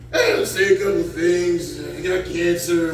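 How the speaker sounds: mock announcer, words stretched out; mock stage introduction. Parodying the host's sad introduction.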